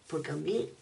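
sleepy whispered complaint; whispering. Real, not acted. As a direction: whisper it at bedtime. Late night, talking before bed.

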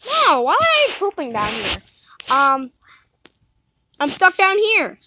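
yelling across the room. Real, not acted. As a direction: shout it across the house. Calling out to Didi.

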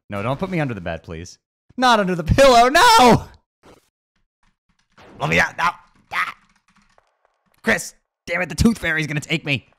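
very high, very loud panicked shrieks; tiny creature shrieking in panic; panicked screams. Acted. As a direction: scream as you're shoved under the pillow. Small creature stuffed under the bed.

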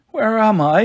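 put-on high, mildly tearful child; starting to cry. A narrator's reading. Little boy waking up confused, starting to cry. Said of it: "starting to cry".

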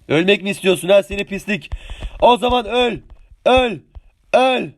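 angry taunt. Real, not acted. Attacking an enemy player.

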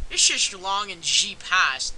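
slow, put-on German accent; mock German accent. Player reading the game's dialogue, in a slow German-sounding accent. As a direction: read it slowly with a fake German accent. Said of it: "Sounds more like German".

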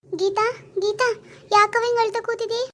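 slow motherly concern; concerned calling. Acted. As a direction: call gently to the crying daughter-in-law. Mother-in-law finds her crying, calls.

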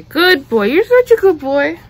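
loud, high pet praise; gushing praise. Real, not acted. Owner praises her dog for wearing the costume, loud and high. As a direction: cheer the dog on like a proud owner.

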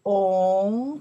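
On drawn out with a steady rise; On as a long rising second tone. Shown as a demonstration. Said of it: "because second tone".

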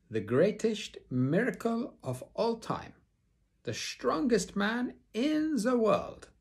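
high, loud, showy circus announcer; milk the big announcement; booming circus barker, drawing out the strong man's name; grand ringmaster. Acted.

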